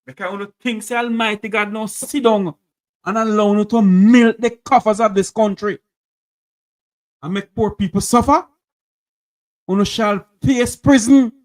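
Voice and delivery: loud, rising indignant warning; angry denunciation. Real, not acted. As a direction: preach it like judgment. Host denouncing corrupt officials.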